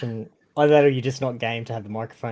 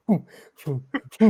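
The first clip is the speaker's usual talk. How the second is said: influencer transition sounds; 7 semitones higher, 7 dB louder, faster than usual. Retold or imitated. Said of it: "watching an influencer video".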